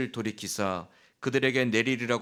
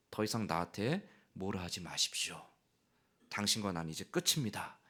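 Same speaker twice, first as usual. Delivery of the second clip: cold quiet; 5 semitones lower, 8 dB quieter than usual. Acted. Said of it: "그런 의미예요".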